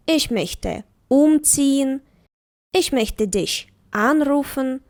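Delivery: slow sentences with the accent on ein, um, an, auf, fern in einkaufen, umziehen, anrufen, aufräumen, Fernsehen; slow classroom model reading; stress on the prefix. Shown as a demonstration. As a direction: say each sentence slowly, leaning on the separable prefix. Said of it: "наголос він теж бере на себе".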